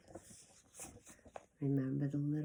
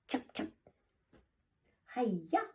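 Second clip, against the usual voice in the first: karate cry; 7 semitones higher than usual. Acted. Karate sister's chops acted out.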